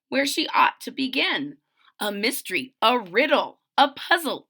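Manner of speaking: rhyming picture-book read-aloud; storybook narrator; story narration. A narrator's reading. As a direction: read to young children, landing each phrase.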